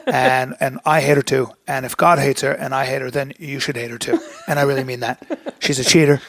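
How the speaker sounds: a light, half-hearted Trump impression; lightly voiced Trump rally talk; bad Donald Trump. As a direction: brag like Trump, loosely. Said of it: "that was a bad Donald Trump".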